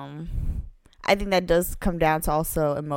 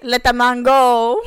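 louder, bursting into laughter; laughing; 7 semitones higher, 12 dB louder, slower than usual. Real, not acted. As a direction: lose it while saying the pun. Cracking up at own pun.

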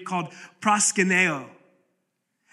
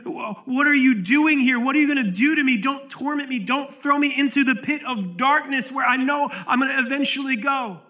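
raised, pleading cry, higher pitched; demon crying out; 4 semitones higher than usual. Retold or imitated. Demons crying out to Jesus, a raised pleading cry. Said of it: "they're crying out to, to Jesus".

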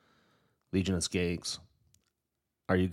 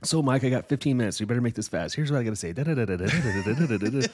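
payphone call; 5 semitones higher, 5 dB louder than usual. Pretend. Voices self on jail call.

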